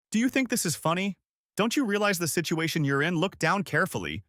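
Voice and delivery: high, sharp angry questions; angry exclaiming. A narrator's reading. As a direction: snap it at the prisoner. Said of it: "Zhang Zhijian exclaimed".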